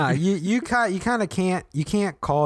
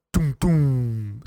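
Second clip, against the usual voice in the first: mouthed doom booms; 3 semitones higher, 4 dB louder than usual. Retold or imitated. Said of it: "lots of, like".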